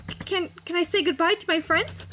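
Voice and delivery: high, stammering fear; expelled girl frightened for her fate; panicked pleading. Acted. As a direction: beg in rising panic. Jael pleads on being expelled.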